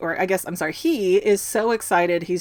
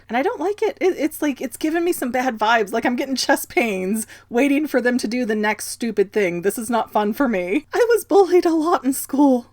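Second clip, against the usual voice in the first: high-pitched, playful anxious complaint; mock distress; 4 semitones higher than usual. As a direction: plead it high, hamming up the anxiety. Mock distress over the bullying twins.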